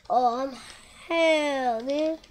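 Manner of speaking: loud frustrated shout, pitch lifting; exasperated outburst. Real, not acted. Gamer playing with a bad razor, exasperated outburst. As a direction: cry out in real exasperation. Exasperated as game goes wrong.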